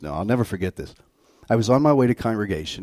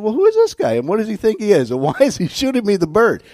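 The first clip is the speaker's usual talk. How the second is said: high, louder indignant ranting; a retold burst of indignation, hammed up; mock outrage; 10 semitones higher, 5 dB louder than usual. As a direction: act out your own flare of anger. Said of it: "But I got angry".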